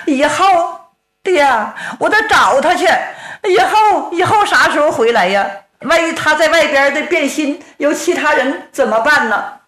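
pleading daughter. Acted. Daughter begs her father, high and tearful. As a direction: whine at her father, near crying on 以后.

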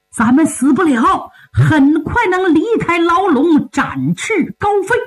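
good news, pitch climbing high; excited. Acted. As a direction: announce freedom with rising excitement. Announces good news of escape. (兴奋报喜，越说越高)

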